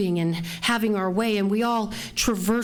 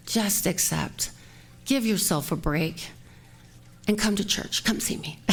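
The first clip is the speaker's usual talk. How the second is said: gentle counsel; 4 dB quieter than usual. Retold or imitated. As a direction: soothe her, almost whispering. Gentle spiritual advice.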